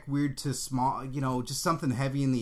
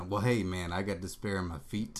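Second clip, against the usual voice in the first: radio DJ voice; 4 semitones lower than usual. Pretend. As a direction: purr it like a seventies radio DJ. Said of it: "you sound like a big sexy radio D J".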